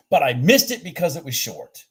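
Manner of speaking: said through a laugh; amused, laughing admission. Real, not acted. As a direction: laugh at yourself while saying it. Laughs at own miss.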